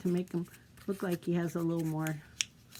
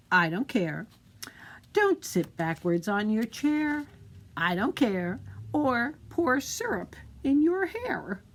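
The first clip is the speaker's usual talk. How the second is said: put-on reading a mother and her sulky boy; 3 semitones higher, 5 dB louder than usual. Mother and Pierre dialogue read aloud.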